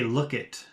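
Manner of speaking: "Look it" run together as two words; childlike casual "Look it"; casual contraction. Shown as a demonstration. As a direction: say "Look it", dropping "at" into one short "it". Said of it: "they say".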